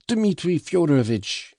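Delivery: put-on high, loud, strained yell of an old man; unnatural yell. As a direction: shriek his name unnaturally. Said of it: "yelled Fyodor Pavlovitch suddenly in an unnatural voice".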